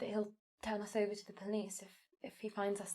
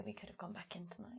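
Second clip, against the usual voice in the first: whispering; 12 dB quieter than usual. Real, not acted. Sneaking past a watchman.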